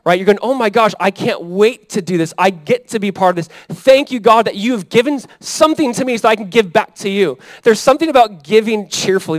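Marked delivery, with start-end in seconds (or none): 0.4-7.4 mock-eager giver, pitched up; cheerful giver. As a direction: act out thankful eagerness to give. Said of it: "something about a cheerful giver".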